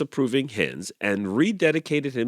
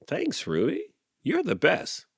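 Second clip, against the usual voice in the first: higher grateful thanks; grateful Clyde; 9 semitones higher than usual. A narrator's reading. Rooster thanking the goose, higher and grateful. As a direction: brighten up, a bit higher.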